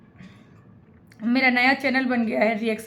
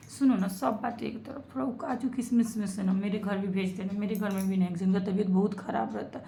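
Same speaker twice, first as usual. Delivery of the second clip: soft, sugary request to Ranjana, a bit lower; sweet coaxing; 3 semitones lower, 5 dB quieter than usual. Acted. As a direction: coax her gently for a share. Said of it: "ये हम प्यार से बोल रहे हैं". (रंजना से मीठी, नरम आवाज़ में मनुहार)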